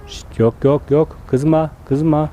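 slow, hushed calming of an animal; drawn-out shush to calm her down; soothing shush. Real, not acted. Calming an angry llama mother. (yavaş, yatıştırıcı ses)

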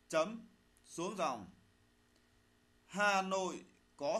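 slow dictation, phrase by phrase; dictating. Shown as a demonstration. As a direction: read it out slowly for pupils to write. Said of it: "lắng nghe thầy đọc bài".

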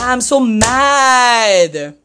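long drawn-out groan of frustration; mad. Real, not acted. Player sulking after losing, mad drawn-out moan. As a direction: drag it out very slowly.

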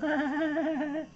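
high soft little giggle; squeaky gnat giggle; tiny giggle. A narrator's reading. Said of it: "an extremely small voice".

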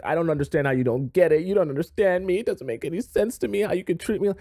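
lightly imitating a crying girlfriend who feels misunderstood; mock crying. Upset girlfriend blaming her confused boyfriend, mock crying. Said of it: "And you're, like, crying".

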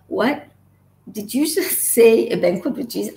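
amazed disbelief. Retold or imitated. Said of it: "And I'm going".

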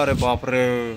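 low hushed oh my god, a touch of dread; scared murmur. Retold or imitated. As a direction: say it under your breath, scared. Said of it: "अब मैंने बोला".

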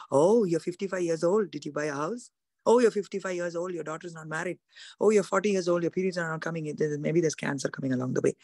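lightly voiced sly tempter, nagging; mild serpent taunt. Preacher voicing serpent's nagging doubts, lightly sly. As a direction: needle her with worries, half-hearted. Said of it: "how does the serpent comes asking you".

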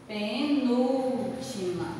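penúltima stretched syllable by syllable; drawn out slowly. Shown as a demonstration. Teacher giving the class the syllable's position, drawn out slowly.

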